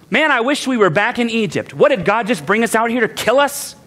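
grumbling. Retold or imitated. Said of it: "Just grumbling, complaining in their spirits".

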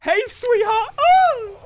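high sing-song mock sweetheart; mock Razor greeting. Gamer mocking the rival Razor, high and teasing. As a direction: tease him in a high mocking voice. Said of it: "Oh, hello, it's Razor".

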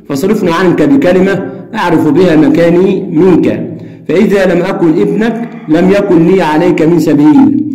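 steady reading of a story dialogue; reading aloud. Shown as a demonstration. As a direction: read the exchange out for the class. Reads dialogue passage aloud. (قراءة حوار القصة بهدوء)

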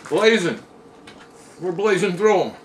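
excited blazing. Real, not acted. Hot wings eating, hyped.

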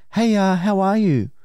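put-on girly greeting=83. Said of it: "she messages first".

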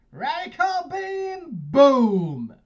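big anime attack shout; shouted attack call. Pretend. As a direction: yell the attack name, rising high. Calling out attack name.

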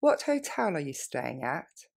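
quick natural pace. Shown as a demonstration. Teacher modelling for students, quick natural. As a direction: run it together naturally. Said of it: "Plus rapidement".

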